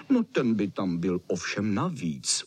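plain reading voice

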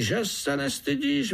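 high squeaky fly calling out. A narrator's reading. Fly groom scolds the spider, high squeaky call. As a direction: scold like a tiny indignant fly.

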